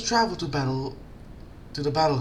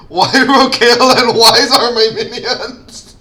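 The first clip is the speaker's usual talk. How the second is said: loud slow laughing words; 10 semitones higher, 14 dB louder, slower than usual. Real, not acted. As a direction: laugh through the line. Laughing at being a villain.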